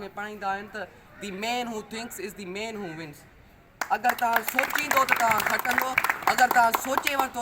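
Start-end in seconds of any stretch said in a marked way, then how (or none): 1.2-3.2 slow quote recital. Acted. Recites quote from matric class. 3.9-7.4 loud oration. Acted. Declaims translated quote at the podium.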